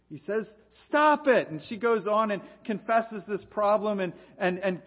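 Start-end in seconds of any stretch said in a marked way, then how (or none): 0.9-1.5 sharp, loud, higher bark of a command; Bob Newhart's blunt shout. Retold or imitated. Counselor cutting off his rambling patient, blunt loud shout. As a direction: snap it like a fed-up counselor cutting her off.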